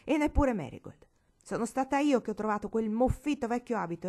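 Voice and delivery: put-on a defiant girl yelling her elders down; loud defiant outburst. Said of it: "chi sapeva fare più rumore di lei".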